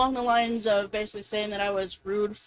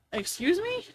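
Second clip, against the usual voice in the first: offended disbelief; 8 semitones higher than usual. Retold or imitated. Retold offended reaction.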